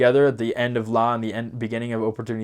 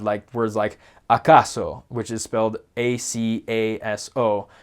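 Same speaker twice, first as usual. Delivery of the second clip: normal talking voice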